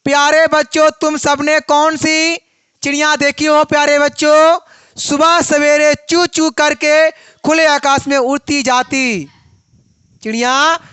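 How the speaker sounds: measured, level singsong reading to pupils; lightly chanted school rhyme; children's verse recitation. Acted. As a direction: recite it to the class, drawing out the phrases.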